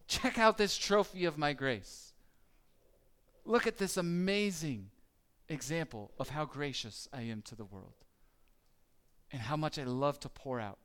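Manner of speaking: a lightly voiced God, proud and glad; proud showing off. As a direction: show off the trophy with delight. God voiced boasting of grace.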